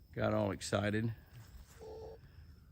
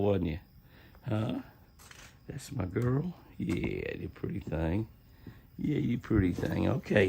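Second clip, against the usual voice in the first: praising dog. Real, not acted. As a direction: coo over her like a proud owner.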